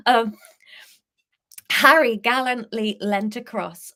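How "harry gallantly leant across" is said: Harry gallantly leant across said with effort; effortful louder read; careful tongue twister. Shown as a demonstration. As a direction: work through "Harry gallantly" deliberately. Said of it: "quite hard to say next to each other".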